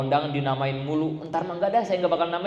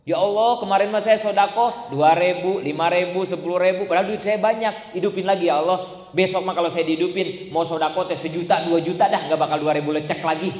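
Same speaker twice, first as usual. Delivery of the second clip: louder, desperate begging of a regretful soul; loud pleading to Allah; 3 dB louder than usual. Acted. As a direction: cry out to God, begging for another chance. Dead man begs Allah loudly.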